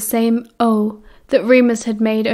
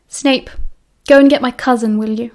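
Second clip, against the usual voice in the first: sharp order. Acted. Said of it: "he said sharply".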